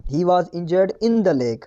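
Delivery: very slow reading with in; slow corrected line. Shown as a demonstration. Teacher slowly dictates the corrected sentence to class. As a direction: dictate each word for copying. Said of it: "यहाँ पर होगा in".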